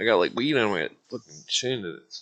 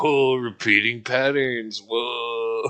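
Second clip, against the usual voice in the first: awed stoner; much slower than usual. Retold or imitated.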